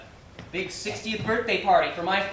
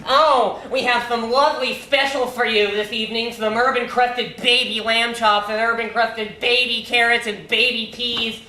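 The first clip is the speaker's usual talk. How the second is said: mock the waiter's mannerisms, louder; a son imitating his father mocking a gay waiter; mocking impersonation of the waiter; 3 semitones higher, 5 dB louder than usual. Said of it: "he does a full-on impersonation of this waiter".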